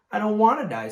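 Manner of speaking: very high, loud screamed wail. Acted. Wilbur screaming his refusal to the barn. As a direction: scream it, throwing yourself down. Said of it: "screamed Wilbur".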